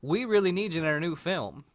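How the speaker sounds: a lightly voiced Hollywood producer; casting producer. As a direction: sell him the fat-guy role. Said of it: "They'd be like".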